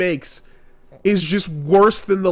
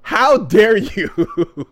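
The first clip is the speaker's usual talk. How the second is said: slow, loud, higher furious yell; hammed-up Naruto banishing her; mock outraged banishing; 5 semitones higher, 6 dB louder, much slower than usual. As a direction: drive her out with hammed-up fury. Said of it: "and he goes".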